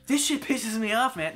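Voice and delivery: annoyed venting at the game; irritated, sweary complaint; mad. Real, not acted. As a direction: gripe with real irritation. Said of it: "This is what I sound like when I'm mad".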